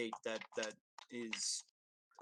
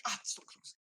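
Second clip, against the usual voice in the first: whispered. Acted. Whispering to the cat.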